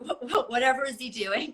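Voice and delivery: stammered wondering through giggles; amused, laughing mock musing. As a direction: giggle as you ask it. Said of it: "So then I start laughing".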